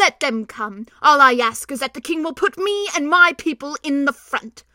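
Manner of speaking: a little mouse puffed up with valor; small shrill mouse voice. Acted. Mouse asking the king for the front line, lightly squeaky. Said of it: "a very shrill and small voice".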